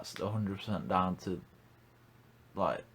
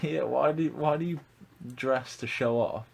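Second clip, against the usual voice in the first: indignant; 5 semitones higher, 4 dB louder than usual. Real, not acted. Indignant rant about outfits.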